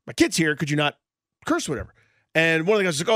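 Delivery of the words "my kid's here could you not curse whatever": mildly imitating a polite dad; friendly request. Dad asking teenagers not to curse, mildly friendly. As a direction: ask nicely, keeping it casual. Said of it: "nicely, I thought, it's pretty friendly".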